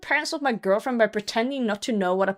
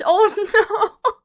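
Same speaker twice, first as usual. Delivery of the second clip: high laughing dismay; laughing groan; 11 semitones higher than usual. Real, not acted. Reacting to the bad plan.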